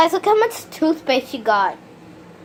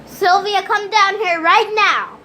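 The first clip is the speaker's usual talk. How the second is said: yelling across the room; 5 semitones higher than usual. Real, not acted. Calling sister from another room.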